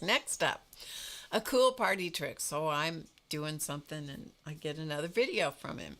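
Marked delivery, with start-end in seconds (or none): 0.0-2.4 mildly hyped retold announcement; upbeat announcement. Repeating the friend's video message for viewers, mock upbeat announcement. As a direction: imitate his showy announcement, a bit louder. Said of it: "so he says".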